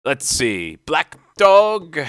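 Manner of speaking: musing that jumps high and loud; aloud again. A narrator's reading. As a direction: call out the name, puzzled. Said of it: "he ran on again aloud".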